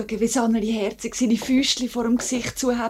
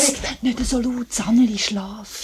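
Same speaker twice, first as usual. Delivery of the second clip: hushed; 3 semitones higher than usual. Acted. Wife hushing her husband beside the sleeping baby, whispered. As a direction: keep it down, the child is sleeping.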